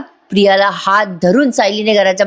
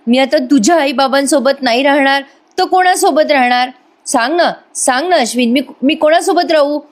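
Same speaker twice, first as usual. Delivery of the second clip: high, pleading put-on distress; milk the sympathy with a whiny plea; faked heartache; 4 semitones higher than usual. Priya pleads with Ashwin for family, faked pitiful whine. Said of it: "कळवळा आणायचं नाटक करते".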